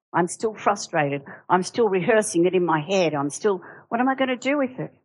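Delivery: a hammed-up fuming outburst; mock seething rant. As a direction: play a worked-up churchgoer who can't let it go. Acting out a seething person.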